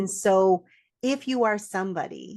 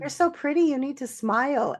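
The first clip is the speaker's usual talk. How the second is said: higher-pitched mock stranger giving advice; imitating pushy strangers; 5 semitones higher than usual. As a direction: mimic an unwanted approach, pitched up. Imitates men approaching her in store.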